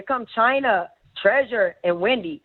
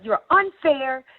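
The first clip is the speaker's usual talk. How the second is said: mock angry; 5 semitones higher than usual. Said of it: "She's like".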